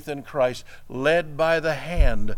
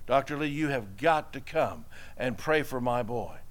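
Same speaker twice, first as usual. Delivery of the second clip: softer, pleading plea; begging; 2 semitones lower, 5 dB quieter than usual. Retold or imitated. Father in the office begging the pastor, soft and pleading. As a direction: quietly beg him to come. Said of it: "begging the pastor".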